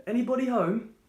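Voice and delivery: loud, high call through a closed door. Acted. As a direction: call out to the house. Postman calls through the door.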